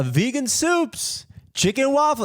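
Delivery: high, drawn-out mock hawker's call; imitated vendor yell. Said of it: "he's yelling it all out".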